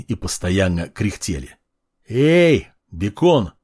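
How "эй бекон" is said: shout. Acted. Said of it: "крикнул я".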